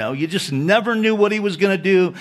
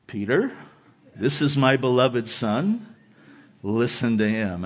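God; 7 semitones lower, 3 dB quieter than usual. Acted. God interrupting Peter at the Transfiguration, low and calm. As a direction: speak low and softly, pausing between phrases. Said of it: "And then God speaks".

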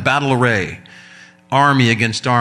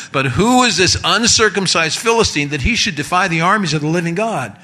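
indignant David; 6 semitones higher than usual. Retold or imitated. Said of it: "go ahead, David, get biological on us".

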